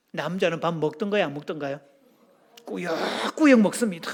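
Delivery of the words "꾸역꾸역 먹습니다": 꾸역꾸역 with a long stretched 역, then repeated; exaggerated emphasis. Shown as a demonstration. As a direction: drag out 꾸역꾸역 for comic effect. Mimes men eating doggedly.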